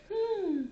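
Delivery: high, tight-smile "hmm"; holding-it-together hum. Shown as a demonstration. Showing viewers the smile, holding-it-together hum. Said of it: "I'm trying to hold it together smile".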